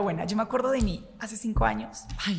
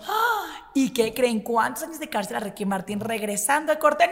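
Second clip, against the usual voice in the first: acted excitement; 2 semitones higher than usual. Radio host teasing a scandal about a singer, acted excitement. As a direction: play up the suspense of juicy news. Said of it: "yo lo hacía de emoción".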